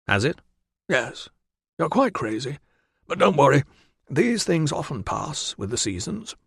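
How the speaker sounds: chummy, teasing concern; Valens voice. Acted. Doctor gently humoring his deluded friend, cheery.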